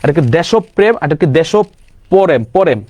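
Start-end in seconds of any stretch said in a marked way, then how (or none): 0.2-1.0 দেশপ্রেম with an o after sh, desho-prem; candidate pronunciation. Shown as a demonstration. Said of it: "তার মানে উচ্চারণ কি হবে". 1.2-2.8 দেশপ্রেম drawn out slowly as desho-po-rem; slow, syllable-split দেশপ্রেম with extra vowels; candidate pronunciation. Shown as a demonstration. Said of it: "তার মানে উচ্চারণ কি হবে".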